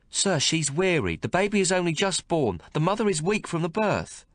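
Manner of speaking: pleading midwife. Acted. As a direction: ask him gently to stop. Midwife voiced in story.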